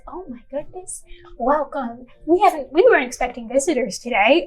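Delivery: pleasantly surprised host, lifting pitch at times; excited welcome. Acted. Snootling greets unexpected visitors from his porch, excited. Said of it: "he stands and excitedly says".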